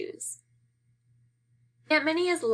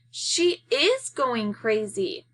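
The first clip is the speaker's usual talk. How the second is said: dismay; much slower than usual. Acted. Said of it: "Kermit says in dismay".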